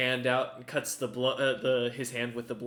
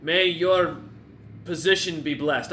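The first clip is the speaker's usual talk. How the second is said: lord blessing; 6 dB louder than usual. Acted.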